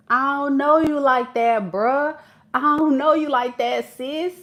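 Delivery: guarded attitude. Retold or imitated. Voiced guarded stance.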